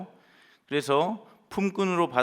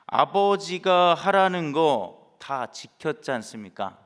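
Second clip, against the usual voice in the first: slow, louder resentful complaint; angry retort; 2 semitones higher, 5 dB louder, slower than usual. Retold or imitated. Older son throwing his obedience back at father, slow and louder. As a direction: lean on it like a sulking son. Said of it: "버럭 화를 내며 했던 얘기처럼요".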